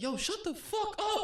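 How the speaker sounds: very high, drawn-out squeal of a yell; mock yell. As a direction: act out snapping at a crying baby, high and slow. Retold yell at crying stroller.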